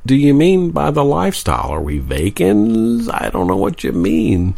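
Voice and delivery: hammed-up clueless questioning; mildly exaggerated puzzlement; mock bafflement. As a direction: play utterly lost, as a joke. Acting out their baffled reaction.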